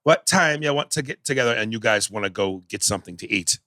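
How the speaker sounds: mocking a Jamaican accent that starts off and then falls off; Denzel's bad Jamaican accent. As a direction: imitate a Jamaican accent that keeps slipping. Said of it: "here was Denzel".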